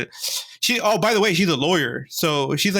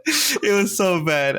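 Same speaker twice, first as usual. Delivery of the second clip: slow, calmer second take, a bit higher; slower repeat; 4 semitones higher, slower than usual. Real, not acted. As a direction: drag it out, settling down from the laugh.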